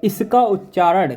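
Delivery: slow and deliberate, each syllable of इसका उच्चारण clear; slow teaching emphasis. Shown as a demonstration. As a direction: spell it out slowly for students. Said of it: "अब note point में देखिए".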